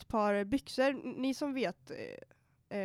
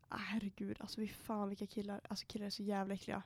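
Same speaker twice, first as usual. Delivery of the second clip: soft, whispered disgust; 3 semitones lower, 11 dB quieter than usual. Real, not acted. Complaining to a friend about gross guys, whispered disgust. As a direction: hiss it under your breath, grossed out.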